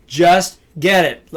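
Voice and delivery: slow, firm just get it with weight on get; emphatic get it. Shown as a demonstration. Coach telling a trainee, slow and firm. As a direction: lean on get in get it. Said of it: "I said".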